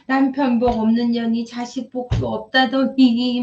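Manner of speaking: a lightly voiced old-time mother's bitter wail; mock lament of a woman who feels unlucky in her husband and her children; old-fashioned mother grumbling about her fate. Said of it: "옛날 엄마들이 막".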